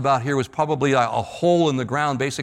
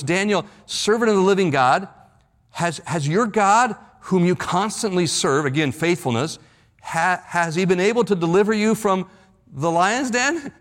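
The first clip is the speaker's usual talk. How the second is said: higher, mildly anxious calling out to Daniel; a king calling into the den, lightly troubled; troubled cry; 3 semitones higher than usual. Retold or imitated. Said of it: "with a troubled voice".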